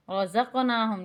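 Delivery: bounced q in رزقناہم; qalqalah. Shown as a demonstration. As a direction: give the q of رزقناہم a small echoing release. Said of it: "یہاں قلقلہ ہوگا".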